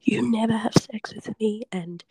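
half-hearted replay of screaming at him; mild retold scream. Retelling screaming back at her ex, mild hushed mock yell. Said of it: "but I screamed this at him".

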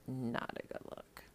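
faint whispered echo; whisper again. Shown as a demonstration.

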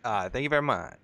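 lightly voiced impression of a famous singer; a hint of the singer, on request. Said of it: "say it again?".

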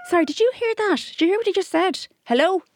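rally the whole table against him; calling out the table. Retold or imitated. Owner calls out to other diners, high indignant shout. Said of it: "I started that thing going".

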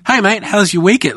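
high, chirpy boss greeting; mock-cheerful office boss; cheery boss. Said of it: "one of the bosses there".

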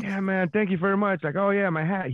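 lightly imitated smooth performer; easygoing impression of a conversational comic; suave and cool. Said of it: "very suave and cool".

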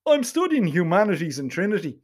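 lightly voiced posh Dubliner; a hint of Donnybrook snobbery; smug Donnybrook accent. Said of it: "in that smug Donnybrook accent of his".

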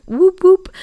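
high, loud mock celebration; sarcastic cheer. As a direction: cheer it with an ironic wink. Sarcastic cheer about missing school.

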